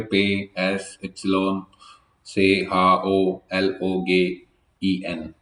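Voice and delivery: पे, एस, इप्सिलॉन spelled with German letter names. Shown as a demonstration. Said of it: "German में इसका pronunciation बिल्कुल अलग है". (जर्मन उच्चारण में अक्षर बोलना)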